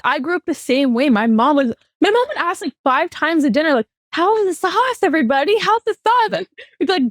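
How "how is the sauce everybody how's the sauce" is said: higher-pitched, needy asking; eager mom. Retold or imitated. Mom asking everybody about dinner, eager for approval. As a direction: fish for praise like an anxious mom.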